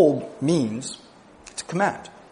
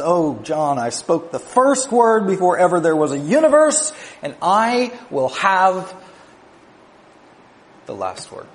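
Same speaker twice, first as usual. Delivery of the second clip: raised, ringing voice of Jesus declaring; proclaiming as Jesus; 5 semitones higher, 3 dB louder than usual. Acted. Jesus speaking to John, raised and ringing, proclaiming triumph.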